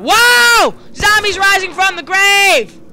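high, slow booming announcer; dramatic announcer. Acted. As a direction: boom it out like a horror trailer.

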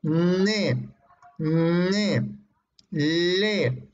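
ne, ne, le from the tongue tip; alveolars, said slowly; demonstrating alveolars. Shown as a demonstration. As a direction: show the alveolar sounds.

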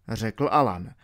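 ordinary delivery

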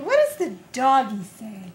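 bright sing-song question to a little one. Real, not acted. Asks toddler what dog says.

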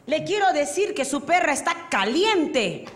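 mock patience running out; exasperated policeman. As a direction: play an officer straining to be understood. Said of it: "dice el otro".

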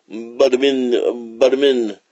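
rhythmic imitated lumbering steps; lumbering walk sound. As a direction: sound out a creature plodding along.

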